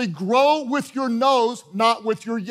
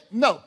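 firm, simple "No." said as a lesson example; demonstrated no. Shown as a demonstration. Preacher demonstrating to the congregation a firm no. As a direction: show them how to say "No". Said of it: "and then you just say it".

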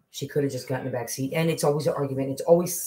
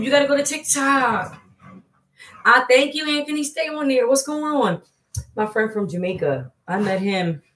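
high, loud and lively; excited chat; 7 semitones higher, 4 dB louder than usual. Real, not acted. Chatting with Anthony from Jamaica, excited. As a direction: keep the energy up for a friend.

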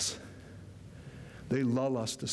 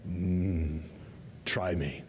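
Black Knight; 8 semitones lower, much slower than usual. Retold or imitated. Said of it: "says the Black Knight".

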